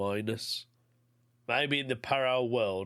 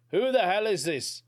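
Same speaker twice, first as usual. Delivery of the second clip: raised, angry demand, pitched much higher; 8 semitones higher, 5 dB louder than usual. Retold or imitated. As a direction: snap at the caller in alarm and anger. Husband confronting the unknown caller.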